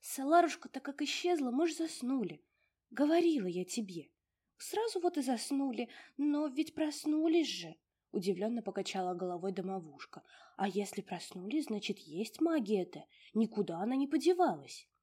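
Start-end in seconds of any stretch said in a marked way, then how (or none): 0.0-7.8 put-on a tiny old domovushka fussing over her mistress; high bustling little house spirit. 10.6-14.9 put-on a tiny old domovushka fussing over her mistress; little house spirit.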